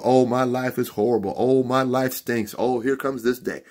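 hammed-up grumbling, quick to start; mock complaining. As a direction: imitate people moaning about their lives. Mimics people complaining about their lives.

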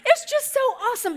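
high tearful gush; mock happy crying. Mom gushing to her son's fiancée, mock tearful joy. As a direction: wail with joy, hammed up.

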